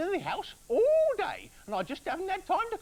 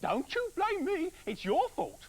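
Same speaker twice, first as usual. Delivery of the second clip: furious wife; 11 semitones higher, 3 dB louder than usual. Acted. Furious wife rounds on her husband for blaming her, high and loud. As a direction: turn his blame back on him, furious. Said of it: "she said".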